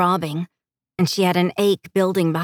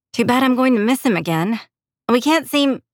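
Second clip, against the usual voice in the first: higher-pitched, lightly regretful complaint; disappointed heroine; 6 semitones higher than usual. Acted. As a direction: lament a missed chance, voice lifted. Heroine laments missing her boyfriend.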